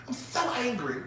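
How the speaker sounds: white-girl impression. Friend insisting to the speaker, mimicked white-girl anger. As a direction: mimic her restrained little complaint. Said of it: "she's a white girl".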